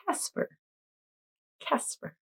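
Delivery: whispered name. Acted. Whispering Casper for the ghost costume.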